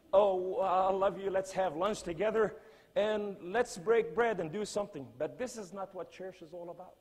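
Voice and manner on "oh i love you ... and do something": sarcastic imitation of a churchgoer's syrupy "I love you"; hammed-up gushing. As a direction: overdo the sugary church welcome. Mocking churchgoers' fake warmth.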